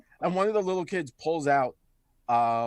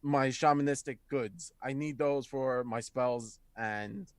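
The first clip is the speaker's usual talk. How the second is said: mildly defeated; 2 semitones lower, 3 dB quieter than usual. Acted. Centaur explains the stolen goods, understated defeat. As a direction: admit it with long pauses, a touch deflated. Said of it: "like, kinda defeated".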